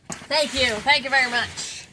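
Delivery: lightly voiced thank-you in a famous singer's style; a playful hint of the singer; impersonation of a famous singer. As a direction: do a light, half-hearted impression of the singer. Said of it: "That was her impersonation of the singer".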